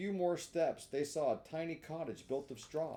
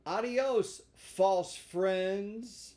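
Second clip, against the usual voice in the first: Pinocchio's voice; 6 semitones higher, 7 dB louder, much slower than usual. Acted. Pinocchio dismissing the beggars.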